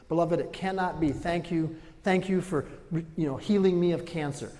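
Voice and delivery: high, loud preaching of thanks; impassioned thankful prayer preached; loud praise. Real, not acted. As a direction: pour out grateful praise.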